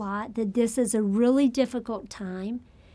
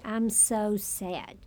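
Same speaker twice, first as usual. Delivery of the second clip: slow quiet sadness; 6 dB quieter, much slower than usual. Acted. Patient voiced in grief.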